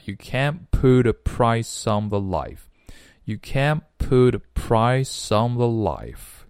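"can't put" with the t left silent; dropped final T. Shown as a demonstration. Teacher shows the unread t, dropped in "can't put". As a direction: say "can't" as "can" straight into "put". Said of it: "不读出来".

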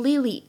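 "lily" with the other same-vowel mistake; wrong Lily pronunciation. Shown as a demonstration. Teacher warns students of another mistake, "lily" with identical vowels. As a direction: give both syllables of "lily" one identical vowel. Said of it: "也不能读成lily".

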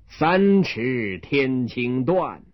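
very slow, measured recital line; slow magistrate recital; magistrate reciting. Acted. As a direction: intone it like an official. Magistrate sets a couplet.

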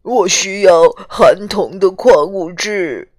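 slow sniffly voice of a weepy porcupine; after crying. Acted. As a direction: speak slowly, still sniffling. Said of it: "豪猪吸着鼻子说".

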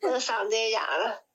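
raspy, worn-out throat; hoarse voice. Real, not acted. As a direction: speak through a hoarse throat.

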